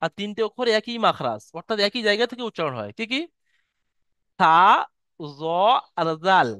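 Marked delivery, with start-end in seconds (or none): 4.4-6.5 থা, জ, জাল with the tongue lightly between the teeth; lightly pronounced. Shown as a demonstration. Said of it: "জিভের আগা এবং সামনের উপরে".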